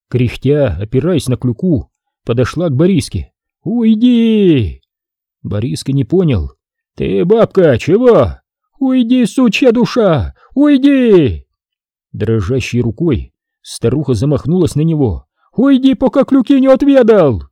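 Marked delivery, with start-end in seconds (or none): 3.6-4.8 put-on furious old woman. A narrator's reading. Old woman drives the lazy priest away, furious. 7.0-17.4 put-on raging old crone. A narrator's reading. Old woman threatens Boriska with her crutch, screaming.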